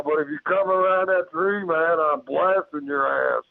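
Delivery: re-enacted warning, high then dropping; retold threat. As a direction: replay a standoff threat, pitch easing down. Retold threat to creature in tree.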